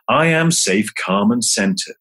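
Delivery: calm, even mantra recitation. Shown as a demonstration. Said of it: "here's a mantra or two".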